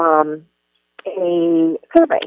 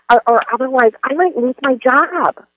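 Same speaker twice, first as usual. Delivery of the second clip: high-pitched victim's whine; whiny, high, self-pitying teacher; child voice; 5 semitones higher than usual. Shown as a demonstration. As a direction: plead like a helpless child, drawing out the end. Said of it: "it sounds something like this".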